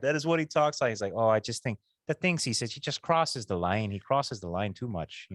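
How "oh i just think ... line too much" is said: Canadian impression. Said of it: "He really talks like that".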